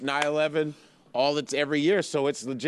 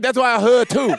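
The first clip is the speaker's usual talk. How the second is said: higher, much louder put-on Asian accent; mock Asian accent; 8 semitones higher, 9 dB louder than usual. Retrying the friend's line in a loud mock Asian accent. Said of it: "little bit of speech impediment".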